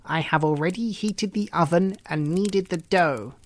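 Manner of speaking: put-on sly old woman voice; a lightly voiced scheming witch. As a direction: sound helpful while plotting. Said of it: "said the old woman".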